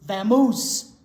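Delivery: loud shooing bear. Acted. Bear shooing the mouse away, loud. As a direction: chase him off with your voice. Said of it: "rumbled Bear".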